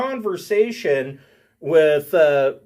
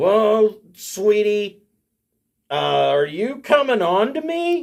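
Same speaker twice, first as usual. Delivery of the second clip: put-on slow, slurred drunken drawl, pitched up; 5 semitones higher than usual. Game master voices a woman answering a player's offer to escort her, slurring her words. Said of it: "She slurs her words".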